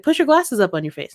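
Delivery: imitated firm repeat order; insistent instruction. Staffer retold instructing a distracted fan, insistent. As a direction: voice a staffer making sure it registers.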